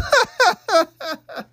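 shrieking laugh, way up high; loud high laugh; high burst of laughter. Real, not acted. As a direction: break into a high cackle. Laughs at himself.

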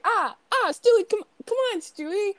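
high, pleading cartoon dad; hammed-up high-pitched pleading; mock protest. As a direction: whine for him to quit while being slapped. Acting Peter being slapped by Stewie.

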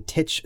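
Tisch said as "titch"; mispronounced Tisch. Real, not acted. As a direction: end Tisch on a hard "tch". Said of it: "It's pronounced Tisch".

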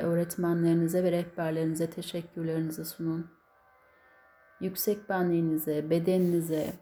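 steady, earnest prayer voice; closing prayer. Acted. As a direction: lead the group in prayer. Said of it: "kapanış duasına geçiyorum".

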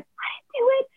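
tiny, very high squeak; small high voice of mock innocence; imitated panicked denial.

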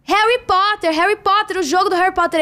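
high, insistent repeating over noise; imitated shouting over music. Colleague repeating the game's name over party music, high insistent half-shout. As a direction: repeat it high-pitched for someone who can't hear. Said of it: "Música alta?".

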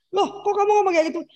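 quick, high-pitched mimicked surprise; taken-aback protest. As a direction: imitate someone startled by what they just heard. Shocked listener's reaction, acted out.

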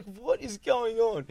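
baffled friend, imitated; mock bewilderment. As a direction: lightly act out total confusion, drawn out. Confused friend in retold story.

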